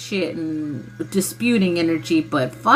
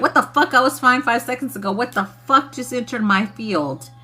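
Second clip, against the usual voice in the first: higher, mildly indignant disbelief; acted indignation; 4 semitones higher than usual. Reacting to something entering their field, mock indignant. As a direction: play at being thrown off. Acts out sudden puzzled indignation.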